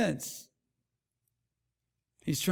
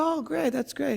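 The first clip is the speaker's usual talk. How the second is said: much higher, dry sarcastic voice; mock sarcastic; 7 semitones higher than usual. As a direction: fake enthusiasm, clearly not pleased. Lady's sarcastic reply.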